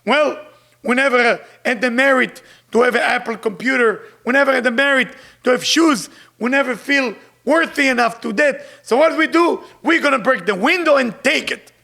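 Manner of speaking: loud, defensive looter excuse; looters answering. Retold or imitated. Looters answering the cameraman, loud and defensive. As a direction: justify it like a rioter. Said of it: "And they say".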